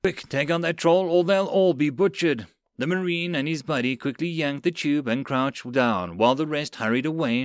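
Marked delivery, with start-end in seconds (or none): 0.0-2.5 raised, urgent battle command; urgent order. Acted. Soldier orders troll taken out, urgent.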